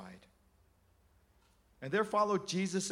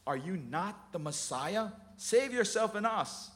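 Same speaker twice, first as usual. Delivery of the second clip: blaspheming; 5 semitones higher, 3 dB louder than usual. Acted. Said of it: "blasphemed him".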